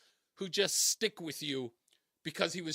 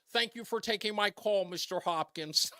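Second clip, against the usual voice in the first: a lightly voiced earnest caller, slightly raised then slowing down; Scott's caller voice; 3 semitones higher than usual. Host imitating an old caller's polite thank you, lightly voiced. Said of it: "He would talk like this".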